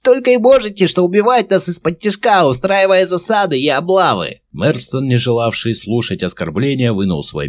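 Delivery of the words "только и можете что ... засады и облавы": creaky goblin voice. A narrator's reading. Captive goblin answering the commander, creaky high voice. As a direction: spit it out like a nasty little goblin. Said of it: "скрипучим голосом".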